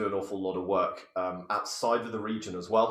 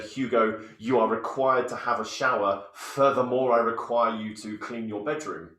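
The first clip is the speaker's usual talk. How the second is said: mock formal. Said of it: "turned to my child Hugo and said".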